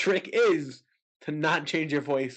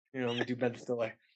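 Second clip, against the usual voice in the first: usual speaking voice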